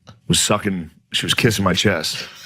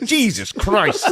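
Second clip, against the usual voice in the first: slow shocked exclaim; 10 semitones higher, much slower than usual. Retold or imitated. Dad seeing the hand.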